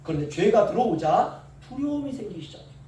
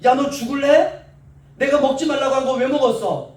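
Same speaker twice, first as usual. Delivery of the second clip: hypothetical furious scolding, louder and higher; mock angry scolding; 4 semitones higher, 5 dB louder than usual. Imagined angry God threatening Adam, mock fury. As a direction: bark it like an irate father. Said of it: "하나님 이렇게 하지 않으시고요".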